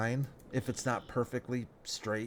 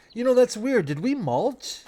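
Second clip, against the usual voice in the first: surprised; 12 semitones higher, 8 dB louder than usual. Real, not acted. Surprised at full yield bonus.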